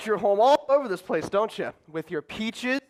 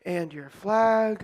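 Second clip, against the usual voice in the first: snide jab; 3 semitones lower, much slower than usual. Acted. Snide echo of her words.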